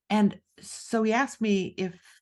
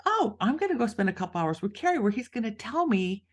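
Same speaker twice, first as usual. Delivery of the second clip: naive giddy self; 4 semitones higher than usual. Retold or imitated. Mocking her naive past self.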